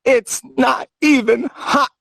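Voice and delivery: slow, whiny, half-crying mockery; mimicking him to his mother with a mock sob; mock son's reply. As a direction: drag it out like a fake sob. Mocking his reply to dying mother.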